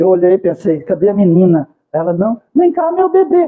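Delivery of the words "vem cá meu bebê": thin, high little voice, calling out. Speaker recounts a big man in a supermarket calling a teenager: imitating a man's thin voice. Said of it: "com a voz fina".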